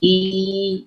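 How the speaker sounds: held "i" with a slight smile; clear, grinning demo "i"; smiling kasrah. Shown as a demonstration. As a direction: spread the lips a little on a long "i". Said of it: "lebih ke sedikit nyengir, sedikit tersenyum".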